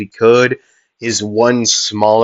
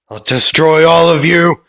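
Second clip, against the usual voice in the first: villain threat; 6 semitones higher, 4 dB louder than usual. Retold or imitated. Villain rant in retelling.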